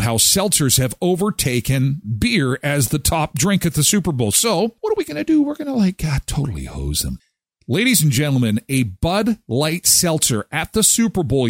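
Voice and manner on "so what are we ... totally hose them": much higher and fast; a playful hint of greedy vendors plotting; mock scheming. Host joking about vendors, mock scheming.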